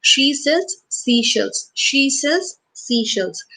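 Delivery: slow, careful repeat for the class; slow tongue twister. Shown as a demonstration. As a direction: lay each word out slowly. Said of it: "So try this one".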